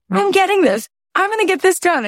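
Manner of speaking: high, eager announcement; bursting with excitement; excited to husband. Retold or imitated. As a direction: tell him like you're on fire. Telling husband, pitch way up.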